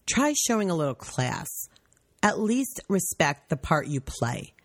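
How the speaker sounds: measured, deliberate letter reading; phrase by phrase, with slight mock gravity; reading a rant aloud. Reading a staffer's Facebook rant to co-host, deliberate.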